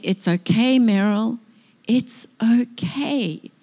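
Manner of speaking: gentle, unhurried comfort, the last okay drawn out slowly; loving reassurance. Retold or imitated. Preacher tenderly voicing God's words to herself, gentle. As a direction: soothe her like God soothing a weeping child. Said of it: "With such a loving voice".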